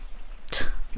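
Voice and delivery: short, voiceless derisive chuckle; derisive laugh. Acted. Laughing off the nurse's advice, derisive. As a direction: scoff with a brief laugh.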